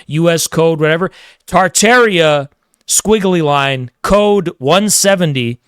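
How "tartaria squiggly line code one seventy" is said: slow, deliberate, mock-grave; mock solemn recital. Mocking a viewer's symbol, slow mock-grave recital. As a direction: intone each word like a sacred code. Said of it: "project authority and intimidate me".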